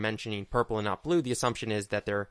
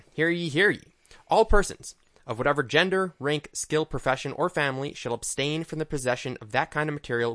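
town crier; 3 semitones higher than usual. Acted. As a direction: proclaim the royal decree to the square. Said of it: "We have the ban right here".

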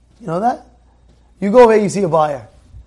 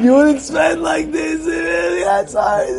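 delighted wife; 9 semitones higher than usual. Retold or imitated. Wife opens the pricey box, high delighted cry. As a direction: squeal it like a wife won over.

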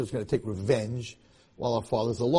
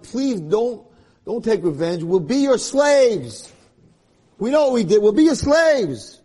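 higher, louder and slow, begging; pleading brothers; 6 semitones higher, 5 dB louder than usual. Acted. Brothers to Yosef, begging forgiveness. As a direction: plead for mercy with rising voice.

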